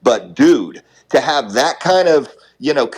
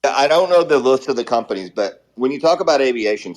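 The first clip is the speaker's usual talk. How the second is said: talking while brushing teeth; brushing with electric toothbrush. Real, not acted. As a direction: toothbrush in mouth. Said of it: "sorry, I'm brushing my teeth".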